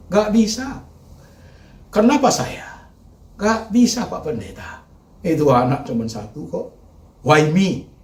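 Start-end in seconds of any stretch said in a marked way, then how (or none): 0.1-4.1 high loud cry of refusal; anguished protest. Acted. Preacher voicing a bereaved parent, loud anguished cry. 5.2-7.9 high loud cry of refusal; anguished protest. Acted. Preacher voicing a bereaved parent, loud anguished cry.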